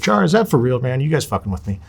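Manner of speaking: surprised. Retold or imitated. Disbelief at making the team.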